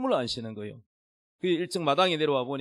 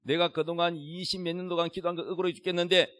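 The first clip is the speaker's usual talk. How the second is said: shouted prayer; 3 semitones higher than usual. Retold or imitated. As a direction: build from raised voice into a shouted complaint. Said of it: "고함을 지르면서".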